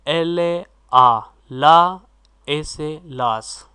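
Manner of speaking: एल ए आ, then ला, then ए से लास, each sound drawn out very slowly; slow spelled blend. Shown as a demonstration. Teacher spelling out लास for the class, slow and drawn out. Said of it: "वो बनेगा लास".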